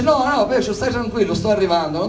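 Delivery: high, lightly put-on soothing; light mock reassurance, falling away at the end; mock placating. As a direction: imitate someone fussily calming a friend. Mock version of Jesus placating Peter.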